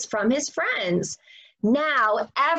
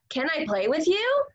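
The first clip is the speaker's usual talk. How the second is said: polite asking; 4 semitones higher, faster than usual. Shown as a demonstration. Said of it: "instead of".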